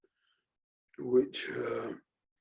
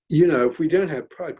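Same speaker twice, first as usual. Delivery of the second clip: louder, rallying emphasis on pride; emphatic; 4 semitones higher, 5 dB louder than usual. Acted. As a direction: drive the point home. Repeats rallying line.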